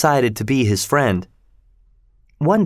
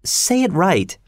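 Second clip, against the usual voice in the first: sweet, higher-pitched coaxing; high, sweetly insistent; 7 semitones higher, slower than usual. A narrator's reading. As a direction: lift the voice into a sweet little instruction. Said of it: "Cathy was saying sweetly".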